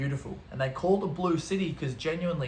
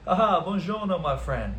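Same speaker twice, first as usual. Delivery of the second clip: showy Italian greeting; 3 semitones higher, 3 dB louder than usual. Retold or imitated. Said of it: "'cause I'm a cultured guy".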